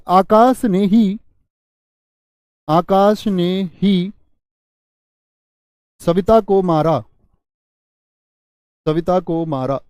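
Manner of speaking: drawn-out emphatic example sentence; stress on ही. Shown as a demonstration. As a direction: stretch आकाश ने ही out and land on ही. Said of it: "मैं बोल दूं ही".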